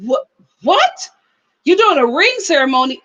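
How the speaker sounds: high, stammered what, then a fast, shocked question; mock outraged surprise; shocked disbelief. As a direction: act out the brother's jaw-drop. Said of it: "He was just like".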